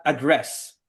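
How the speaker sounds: "address" set apart as a careful model; model pronunciation. Shown as a demonstration. Teacher modelling for the student to repeat, carefully pronounced "address". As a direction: show the student how "address" is read. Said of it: "this is read as".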